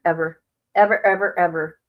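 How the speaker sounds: each ever pressed firmly; emphatic repetition. Real, not acted. Vowing to friend she'll never be forgotten, emphatic. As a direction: lean on every ever. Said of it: "never be forgotten".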